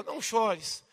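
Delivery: soft, low, tender reading; gentle consolation. Shown as a demonstration. Jesus comforting the widow at the burial, gently. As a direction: say it as comfort to the grieving. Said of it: "entonação de voz que eu fiz".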